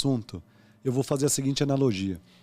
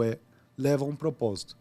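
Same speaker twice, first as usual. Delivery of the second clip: ordinary talk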